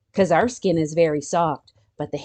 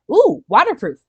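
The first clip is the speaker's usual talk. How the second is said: delighted ooh; 8 semitones higher, 7 dB louder than usual. Real, not acted. Delighted at fact.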